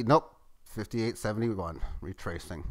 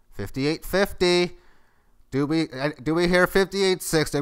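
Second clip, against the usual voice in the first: calling out bids like an auctioneer; louder auction-caller patter; 3 semitones higher, 4 dB louder than usual. Pretend. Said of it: "I'm gonna feel like an auctioneer".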